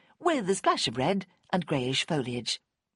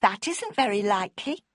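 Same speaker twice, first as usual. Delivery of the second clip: superior; 4 semitones higher than usual. A narrator's reading. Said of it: "gave a superior little smile".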